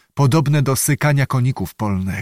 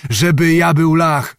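higher, raised exclamation; indignant cry; 4 semitones higher, 4 dB louder than usual. A narrator's reading. Bohun answers the witch's taunt, crying out indignantly. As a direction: cry out in wounded protest. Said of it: "zawołał Bohun".

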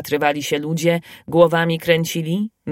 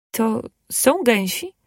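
slow, glad wondering ask; hopeful and delighted; joyful question; 3 semitones higher, slower than usual. Acted. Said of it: "Pyta radośnie Marysia".

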